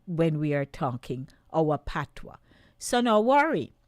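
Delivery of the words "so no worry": louder, higher "So no worry", hitting worry; emphatic reassurance. Real, not acted. Host reassures patois speakers on air, loud emphatic. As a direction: reassure them boldly, lean on worry.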